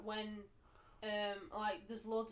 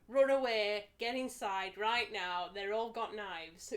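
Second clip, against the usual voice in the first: panicked inner voice; 6 dB louder, slower than usual. Retold or imitated. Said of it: "my other side of the brain is like".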